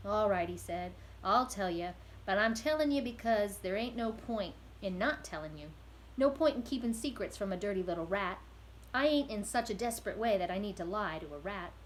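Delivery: a weary convict unburdening himself, a bit loud; gruff prisoner. Acted. Prisoner confesses to the rat.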